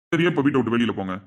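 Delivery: loud, low command to leave; angry order out. Acted. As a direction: throw them out of the house. Father orders relatives out. (கோபமாக வெளியே போகச் சொல்லுதல்)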